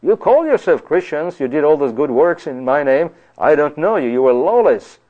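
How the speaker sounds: a hint of a judge turning them away; Christ rejecting them. Preacher voicing Christ turning away false Christians, stern. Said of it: "would be told".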